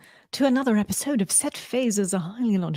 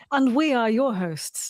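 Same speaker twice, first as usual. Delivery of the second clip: grand presenter; 4 semitones higher, slower than usual. Pretend. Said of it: "That's what we should probably say".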